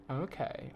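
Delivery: Okay with a long, drawn-out Canadian O. Shown as a demonstration. Showing how Canadians say their O's, long Okay. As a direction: stretch the O in Okay like a Torontonian. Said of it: "the way they say the O's is like".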